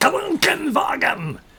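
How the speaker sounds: harsh, shrill barked yell, very high. Showing how another person says a German word, yelled out. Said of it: "yell it out like that".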